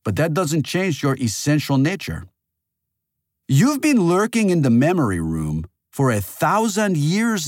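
heated reproach settling into an earnest appeal; impassioned accuser. A narrator's reading. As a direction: lecture them urgently, easing off at the end.

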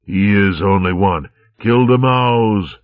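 slow, high, menacing hiss; hissed order. A narrator's reading. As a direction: hiss the kill order to the corsairs. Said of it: "he hissed at the corsairs".

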